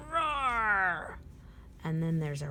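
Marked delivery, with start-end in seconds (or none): 0.1-1.2 car roar. Acted. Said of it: "A car races down a street".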